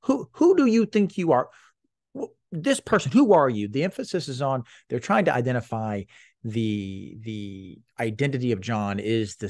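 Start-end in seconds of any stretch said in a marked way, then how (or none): 0.0-3.7 high, loud, incredulous "Who do you think you are?"; challenging priests. Retold or imitated. Priests from Jerusalem confronting John, high and indignant. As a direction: jab the question at him, indignant. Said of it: "It's like they're pointing up".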